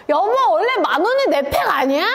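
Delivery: 무심코 크게 튀어나온 질문, 높고 크게; 남편에게 크게 묻듯; 큰 소리로. Retold or imitated. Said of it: "너무 큰 소리로". (남편에게 무심코 크게 묻는 큰 소리)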